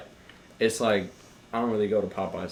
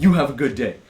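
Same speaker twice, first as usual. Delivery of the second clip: mildly angry, louder sign-off; a touch of aggression in the farewell; aggressive and angry; 3 semitones higher, 6 dB louder, faster than usual. Retold or imitated. Barista repeating the comeback to a customer, mildly angry. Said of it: "very aggressive and angry".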